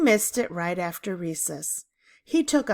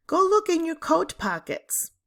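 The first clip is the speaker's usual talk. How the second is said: stern teacher; 10 semitones higher than usual. A narrator's reading. Teacher orders Diane.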